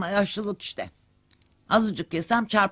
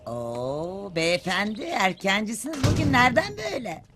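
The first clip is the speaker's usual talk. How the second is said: mock-impressed, climbing steadily in pitch; sarcastic greeting. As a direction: greet him with exaggerated surprise. Mother sarcastically greets her idle son.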